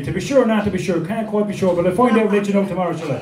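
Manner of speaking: put-on lilting Irish accent, quickening at the end. Irish Shakespeare unable to decide, Irish accent. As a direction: dither cheerfully in an Irish accent. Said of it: "have an Irish Shakespeare".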